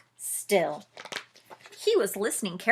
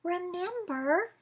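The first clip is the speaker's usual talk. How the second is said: murmured reminder; 9 semitones higher than usual. Acted. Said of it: "murmured Mouse".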